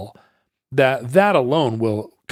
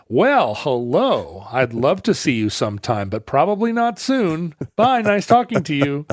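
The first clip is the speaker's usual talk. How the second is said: polite brush-off; 4 semitones higher than usual. Retold or imitated. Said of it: "they come out here and they're like".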